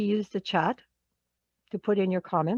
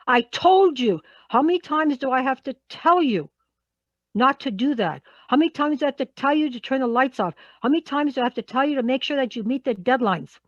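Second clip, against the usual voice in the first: scolding; 3 semitones higher than usual. Acted. Acts out a scolding boss.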